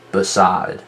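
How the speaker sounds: "beside" with a short weak be and a full SIDE; stress on SIDE. Shown as a demonstration. Teacher showing students how to hear stress, "beside" with SIDE stressed. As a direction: let the second syllable of "beside" carry the word. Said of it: "You can hear the stress on the side part".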